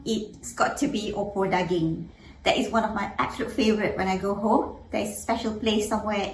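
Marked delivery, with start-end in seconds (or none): none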